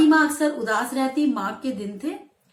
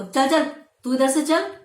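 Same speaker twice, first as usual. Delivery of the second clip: louder mock telling-off; a grandmother shooing a boy, louder; retold scolding; 3 semitones higher, 5 dB louder than usual. Grandmother scolding the narrator boy, mock telling-off. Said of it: "दादी ने उसको डांट लगा दी".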